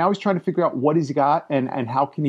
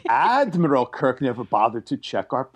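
Khan impression; 2 semitones lower than usual. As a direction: mimic a grandiose accusation with weighty pauses. Quoting Khan in the film.

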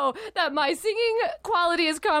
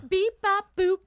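phone beeps; 5 semitones higher, slower than usual. Acted. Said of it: "This is called a telephone".

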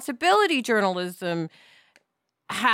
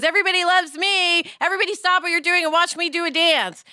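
lightly voiced showy child, a touch higher; six-year-old showing off; 5 semitones higher than usual. Inner six-year-old demanding attention, mildly childish. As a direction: play the kid who wants all eyes on her. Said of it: "six-year-old in us that goes".

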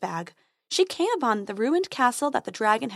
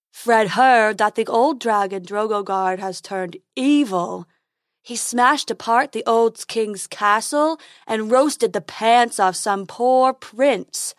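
slow, louder goofy unicorn; 5 dB louder, slower than usual. Acted. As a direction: gossip like a silly unicorn.

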